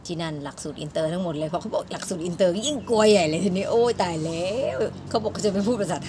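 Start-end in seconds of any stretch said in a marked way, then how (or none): 2.7-4.8 mock panic. Student hearing classes are all in English, mock panic. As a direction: relive a comic panic, pushing the voice up.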